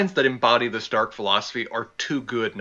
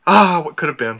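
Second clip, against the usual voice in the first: dreamy; 4 semitones higher, 6 dB louder than usual. Real, not acted. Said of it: "you sound like you're kinda dreaming there".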